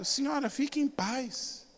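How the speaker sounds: soft, slow and soothing; calm reassurance. Retold or imitated. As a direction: gently settle her down.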